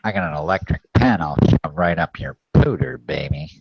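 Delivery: nasal nerd voice through pinched nose; pinched nose impression. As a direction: hold your nose and leer. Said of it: "sounds like you're holding your nose".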